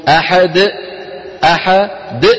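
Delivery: أحد ended with a hard glottal catch; wrong glottal stop ending. Shown as a demonstration. Teacher demonstrates the wrong ending. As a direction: close the throat after أحد. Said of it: "يقول أحدهم".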